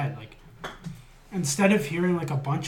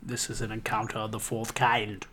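mock alien voice; 5 semitones lower than usual. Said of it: "Good accent".

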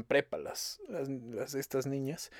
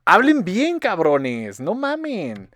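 high, loud mock scolding; exasperated scolding; 5 semitones higher, 8 dB louder, much slower than usual. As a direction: plead loudly in exasperation. Scolds fresas for their speech. (regaño exasperado, agudo y fuerte)

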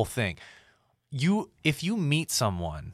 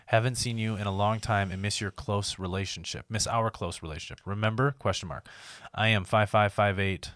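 put-on creepy older man. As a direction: read it like a lonely old guy, mildly. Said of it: "That's how that guy sounds".

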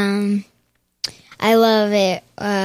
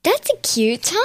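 higher, airy brush-off compliment; mock dismissive teacher; 6 semitones higher than usual. Retelling teacher dodging Riley, airy brush-off. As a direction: sweetly dodge the question. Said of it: "she was just like".

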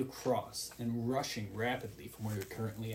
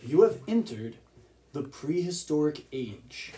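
dramatic narration; slower than usual. Acted. Game master introducing the prehistoric world to listeners, grand narration. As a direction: announce the age of beasts with weight. GM reads era description.

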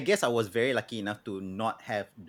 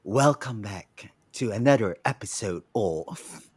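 sultry voice. Acted. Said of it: "This is our sultry voice".

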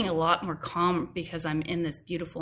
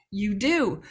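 bickering voices; 3 semitones higher, 4 dB louder than usual. Retold or imitated. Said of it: "had this argument with myself".

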